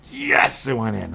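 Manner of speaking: real fan cheer; excited yes. Real, not acted. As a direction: cheer the shot going in. Cheering a basket.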